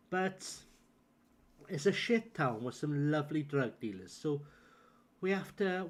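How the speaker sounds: put-on South Wales accent, chatty; easygoing South Walian Welsh voice. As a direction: talk deep in a Welsh accent. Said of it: "I was just deep in a Welsh accent".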